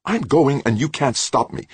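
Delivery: high, heated defiance; hotly. A narrator's reading. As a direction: defy him hotly, pitch way up. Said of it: "she said hotly".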